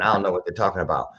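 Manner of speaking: ordinary talk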